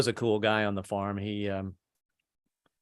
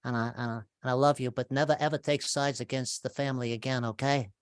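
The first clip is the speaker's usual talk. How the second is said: softer, hushed menacing Godfather voice; Al Pacino impression; 5 dB quieter than usual. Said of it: "given a big speech by Al Pacino".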